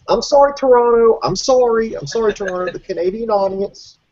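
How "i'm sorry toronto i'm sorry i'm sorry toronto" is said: mock apology.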